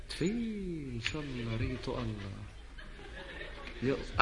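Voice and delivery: slow, low, weary cursing; exasperated mom scolding. Acted. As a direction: drag out the curse in exasperation.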